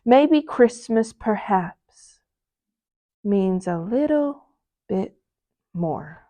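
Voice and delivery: a tender dawning realization; thoughtful Grinch. Acted. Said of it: "he thought".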